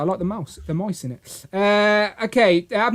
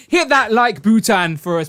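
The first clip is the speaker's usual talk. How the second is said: loud, slow Jamaican lilt; playful Jamaican accent, stretched and loud; mock Jamaican accent; 4 semitones higher, 5 dB louder, slower than usual. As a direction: call it out in joking Jamaican. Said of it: "Now we're all Jamaican".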